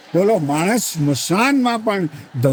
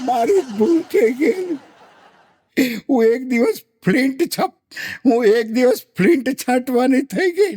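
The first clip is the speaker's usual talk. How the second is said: mock widow; 6 semitones higher than usual. Ant widow admitting her mistake, high put-on voice.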